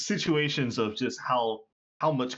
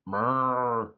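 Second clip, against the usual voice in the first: muffled mumble; 3 semitones higher, 4 dB louder than usual. Acted. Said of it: "like, in a muffled voice".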